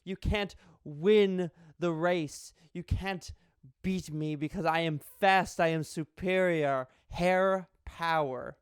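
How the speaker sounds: loud, slow mock boasting; cocky hare. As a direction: gloat as the hare, drawing out the key words. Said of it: "the hare is all cocky".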